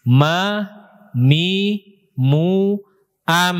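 MA, MI, MU, AM with lips lightly meeting; medium lip closure. Shown as a demonstration. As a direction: say "Ma, mi, mu, am" with moderate lip pressure. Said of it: "Nempel bibirnya itu sedang. Bukan kuat".

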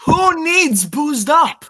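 loud, high, drawn-out comeback; indignant retort. Acted. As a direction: throw it back loudly, stretching the words. Indignant retort to boozing accusation.

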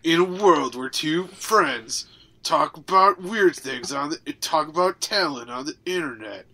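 mock-epic trailer read.

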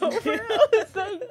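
words breaking up into laughter; laughing. Real, not acted. Woman recalls friend's relief at her breakup, laughing. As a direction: laugh through the end of the retelling.

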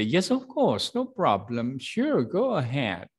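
demo reply. Shown as a demonstration. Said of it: "you can say".

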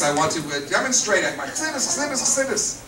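mock tearful pleading. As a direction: wail the word as a pleading student. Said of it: "he's crying, he's begging, he's pleading".

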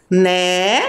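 "Netinha" broken into ne, ti, nha with long pauses; sílaba por sílaba. Shown as a demonstration. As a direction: count out the syllables of "Netinha", one by one. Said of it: "E quantas sílabas?". ("Netinha" separando bem cada sílaba)

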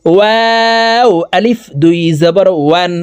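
long "ওয়াও" with both lips rounded; rounded-lip Waw. Shown as a demonstration. Teacher demonstrates Waw to viewers, lips rounded with a gap. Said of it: "দুই ঠোঁট গোল করে".

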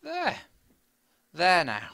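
falsetto. Pretend. Placing the last block with a pleased falsetto squeak.

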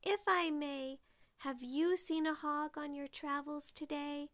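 a hint of a courteous little character; polite Lil. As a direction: ask politely in a lifted voice. Voices Lil calling to crow.

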